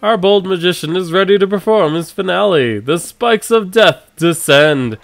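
showman announcer. Acted. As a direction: announce the deadly finale. Announcer narrates the finale.

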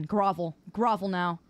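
low, imperious order; low-pitched haughty demand; mock command. Demands groveling apology, low first.

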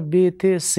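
ب، ت، س as be, te, se; س said "se" with the s of sin; mispronounced letter names. Shown as a demonstration. Teacher quoting untrained teachers' wrong letters, Persian-style pronunciation.

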